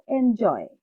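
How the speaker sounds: এনজয় with the weight on জয়; stressed second syllable. Shown as a demonstration. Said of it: "loudly পড়বো, অর্থাৎ জোরে পড়বো".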